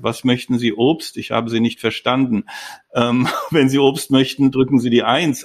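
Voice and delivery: stiff, tinny robot voice. Retold or imitated. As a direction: read it like a clunky shop robot. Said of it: "in blecherner Stimme".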